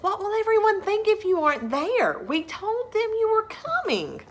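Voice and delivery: high, exaggerated pleading father; pleading dad. Father pleading that the class expects Sarah. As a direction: lift your pitch and plead.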